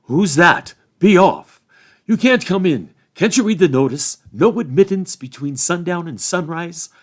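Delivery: loud, high gatekeeper's shout from the dark. A narrator's reading. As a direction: bellow it at strangers at the gate. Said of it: "A voice shouted in the dark".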